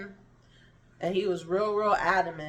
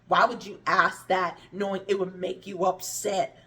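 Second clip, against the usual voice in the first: mildly raised voice, imitating a scolding; louder, lightly mimicked telling-off; retold yelling; 5 dB louder than usual. Cousin scolding her for being upset, mild mock yell. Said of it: "she started yelling at me".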